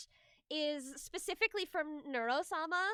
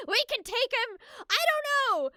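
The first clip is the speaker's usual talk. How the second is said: playful bravado; 7 semitones higher, 8 dB louder than usual. Real, not acted. Joking bravado about beating a record.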